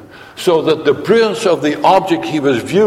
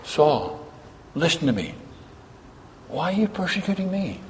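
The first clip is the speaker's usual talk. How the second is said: soft, high, intimate whisper; whispered plea; 6 semitones higher, 8 dB quieter than usual. Pretend. Jesus whispering in Saul's ear, soft and pleading. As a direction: lean in and whisper the plea gently. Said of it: "would he whisper in his ear".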